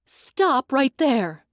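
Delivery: loud, slow command; yelled command. Acted. Guardian shouts at Thorin to stop, loud and slow. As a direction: order him to freeze, drawn out. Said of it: "the guardian yelled".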